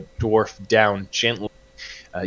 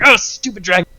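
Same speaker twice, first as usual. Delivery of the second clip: higher-pitched mock grumbling; exasperated outburst; 9 semitones higher, 4 dB louder than usual. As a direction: curse the beast in exasperation. Game master acts out frustrated rider.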